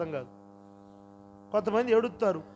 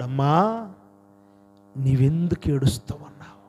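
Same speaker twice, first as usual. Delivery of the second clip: a hint of the Lord's voice, pitched low; voicing the Lord; 5 semitones lower, 4 dB louder than usual. The Lord to weeping Mary at the tomb, lightly voiced, low. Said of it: "ఆమెతో ప్రభు అంటున్నాడు".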